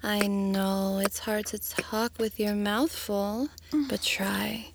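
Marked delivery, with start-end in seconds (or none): 3.9-4.7 whispering. Acted. Soft whispered coaxing.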